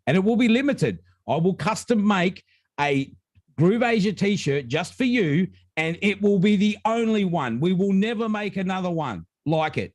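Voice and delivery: hyped-up pitch. Real, not acted. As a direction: pitch it like a rare collector's item. Hyping the one-off custom prize.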